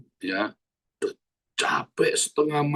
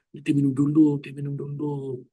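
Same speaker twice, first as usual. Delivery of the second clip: imploring, softening to near a hush; a child begging father to drink; pleading; 3 semitones higher than usual. Retold or imitated. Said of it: "Sambil memelas".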